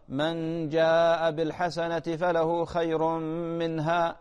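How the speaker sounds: drawn-out, chanted reading of the verse; slow Quran recitation. Shown as a demonstration. Sheikh shows caller Um Fawaz the correct recitation, slow and chanted. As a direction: recite it slowly, as a model reading. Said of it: "أنا قلت لك مثلًا".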